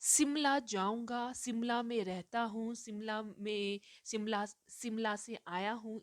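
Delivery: शिमला said as "Simla", with a plain s. Retold or imitated. Teacher imitating an adult a child overhears, शिमला as सिमला. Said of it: "जो शिमला को शिमला कह रहे हैं".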